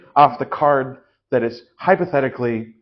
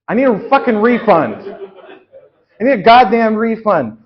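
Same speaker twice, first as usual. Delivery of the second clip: angry customer; 6 semitones higher, 6 dB louder than usual. Acted. Demanding refund at counter.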